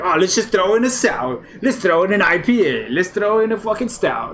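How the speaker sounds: high, excited inner voice; voicing the tongue. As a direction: play the confused tongue. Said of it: "and then it's just like".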